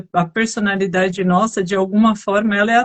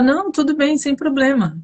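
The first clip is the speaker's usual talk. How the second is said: higher, lightly acted reassurance; reassuring seller; 7 semitones higher than usual. Seller soothing a busy client, lightly acted reassurance. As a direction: let the client off easily, as a role-played seller. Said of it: "trazer ele pra calma".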